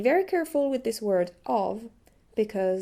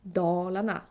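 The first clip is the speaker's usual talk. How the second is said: Dalarna with a deep tone early, a lighter one later; sing-song Swedish tones on Dalarna; two-tone word melody; 3 semitones lower than usual. Shown as a demonstration. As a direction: Dalarna with Swedish pitch accent, first syllable weighted. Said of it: "first tone is on the first".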